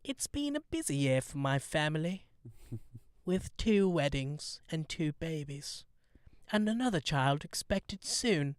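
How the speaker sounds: softly imitating the Queen's stiff royal English; British royal accent, lightly imitated; Queen impression. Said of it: "I'm gonna try and do it in the Queen's voice".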